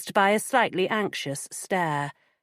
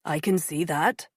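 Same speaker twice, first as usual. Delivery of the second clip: gentle. Acted. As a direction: reassure her gently. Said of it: "he said gently".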